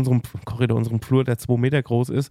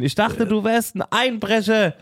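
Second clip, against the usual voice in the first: retold shout; 7 semitones higher, slower than usual. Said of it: "ich hab uns echt angeschrien".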